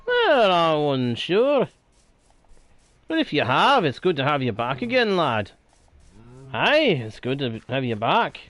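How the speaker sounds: a light, playful Scottish brogue with "lad" and "aye"; a friendly old Scots fellow welcoming someone back, lightly put on; Scottish accent. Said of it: "sometimes I do the accents just 'cause I find it fun".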